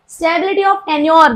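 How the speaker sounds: very slow, word by word, for notes; slow dictation. Shown as a demonstration. Teacher dictating to the class, slow word by word. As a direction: spell it out slowly so the class can write. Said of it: "teacher dictating principle".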